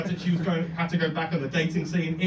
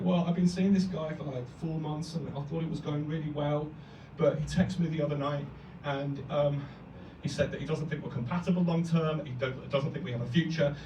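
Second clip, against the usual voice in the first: mock tearful girl; 2 semitones lower, 7 dB quieter than usual. Girl retelling her breakup.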